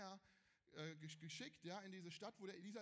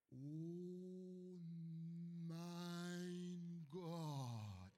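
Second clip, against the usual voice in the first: stunned gasp; 4 dB louder, much slower than usual. Retold or imitated. Gehasi sees army at door.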